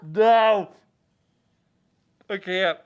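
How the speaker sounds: high, loud, laughing through it; can't stop laughing, trying to talk; stifled giggles. Real, not acted. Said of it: "I'm trying not to laugh so hard".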